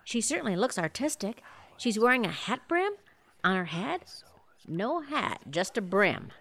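low golf-announcer hush; hushed commentary. Acted. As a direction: lean in and report quietly.

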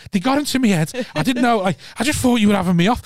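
mock pleading, voice pushed up; retold pleading excuse. Young cabbie excusing himself to the boxer, pleading.

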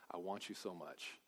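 soft, hushed and tender; tender Jesus voice. Acted. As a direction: say it as gentle longing. Jesus voiced speaking to sinners.

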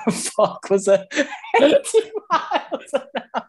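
high, breaking into laughter; helpless laughter squeezing the words upward; laughing incredulously. Real, not acted. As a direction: crack up in disbelief while talking. Laughing at exaggerated wind claim.

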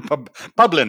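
laughing through the joke name. Real, not acted. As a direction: giggle out the silly name.

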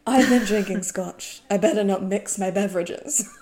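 mock British royal. Drunk guest offered black coffee, mock-posh refusal. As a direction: announce it grandly, taking your time. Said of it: "He's chatting like a British royal".

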